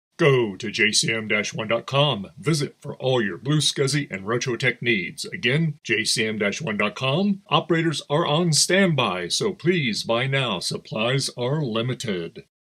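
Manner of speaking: put-on radio ad read, podcast announcer voice. Reading an ad for a retro tech website: podcast voice. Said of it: "He was using his podcast voice".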